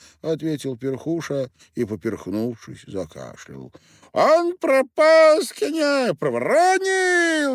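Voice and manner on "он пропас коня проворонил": very high, loud, slow squeal of a tiny furious man; little miller yelling Пшёл вон at Perkhusha; squealing shout. A narrator's reading. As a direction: scream it at the coachman in a high squeak. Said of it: "не унимался мельник".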